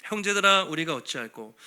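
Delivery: 크게 부르고 낮게 무너지는 탄식; deep lament. Acted. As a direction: cry out, then collapse into despair. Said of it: "엄청난 탄식".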